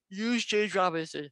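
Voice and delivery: words stretched by a yawn. Real, not acted. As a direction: say it mid-yawn. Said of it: "Sorry for my yawn".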